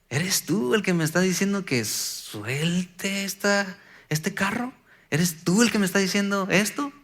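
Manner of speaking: a quiet, wondering doubt toward the Lord; doubtful asking. Retold or imitated. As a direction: ask it hesitantly, not sure of the answer. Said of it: "Constantemente era".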